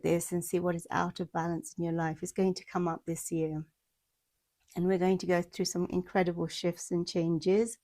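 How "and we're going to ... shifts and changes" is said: slightly winded talking; out of breath. Real, not acted. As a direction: talk while catching your breath. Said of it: "See, I'm getting out of breath".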